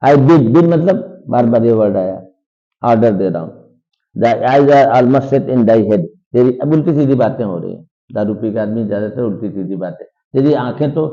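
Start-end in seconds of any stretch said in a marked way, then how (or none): 4.2-6.1 slow, louder recital of the line; slow dramatic reading. Shown as a demonstration. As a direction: read it out like a stage line, slowly. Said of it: "teacher reads text slowly". (धीमा नाटकीय पाठ)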